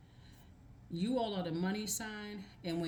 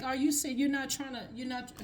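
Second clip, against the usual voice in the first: higher, louder, stunned half-question; incredulous disbelief; 7 semitones higher, 3 dB louder than usual. Retold or imitated. Reader to Cancers, voicing the shocked reply to fake stress. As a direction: cut yourself off mid-word in mock shock. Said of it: "that's what you almost wanna say".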